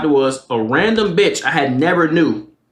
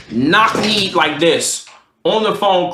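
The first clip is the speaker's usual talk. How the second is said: plain reading voice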